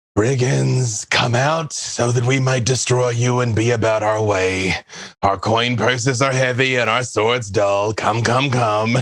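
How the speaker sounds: grandiose, hearty, declaimed taunting call-out. Player character calling out to brigands in the game, booming yell. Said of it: "make my voice boom and just yell out".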